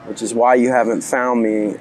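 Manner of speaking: rough, gravelly voice; a bit hoarse from travel. Real, not acted. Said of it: "as you can tell by my gravelly voice".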